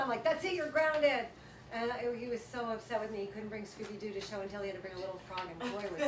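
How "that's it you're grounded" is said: slow, loud final verdict; stern mom. Retold or imitated. Mom grounding her son, slow and loud. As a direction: lay down the punishment firmly.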